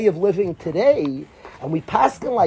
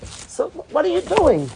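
raised, pleading mentor voice; coaching a student; 5 semitones higher than usual. Retold or imitated. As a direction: push the boy to rethink, higher and urgent. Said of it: "I was telling a bacher".

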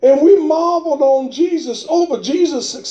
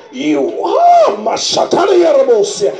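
speaking in tongues; 3 semitones higher than usual. Real, not acted.

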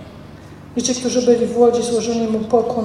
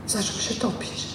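sinking whisper; 4 semitones lower, 13 dB quieter than usual. Acted. Peter sinking, dramatic hush.

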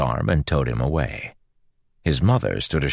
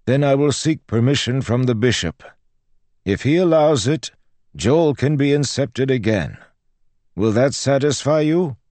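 high, loud exasperated cleric; exasperated priest; 13 semitones higher, 5 dB louder than usual. Acted. Priest bargains with the yelling girl, exasperated. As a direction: give in grudgingly as the priest.

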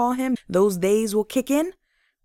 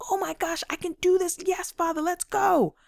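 much higher, giddy and eager; amped-up excitement; 10 semitones higher than usual. Pretend. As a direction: bounce with it like you're ready to go. Amped up at a new project.

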